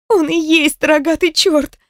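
a pained, drawn-out wail; moaning. Acted. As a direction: drag it out like a groan. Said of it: "простонала Слада".

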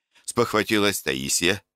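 plain reading voice

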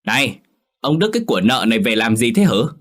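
put-on wife furious at the girl her husband brought home; angry demand. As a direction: snap at him quickly. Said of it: "đùng đùng tức giận".

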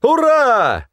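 high, loud triumphant cry; restrained man cheering defiantly; exclaiming. A narrator's reading. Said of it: "воскликнул он".

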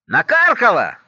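громкий, высокий пьяный выкрик мужа; гневный крик. Acted. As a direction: yell it high and angry, a drunk husband. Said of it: "гневно кричит". (гневно, громко крикнуть)

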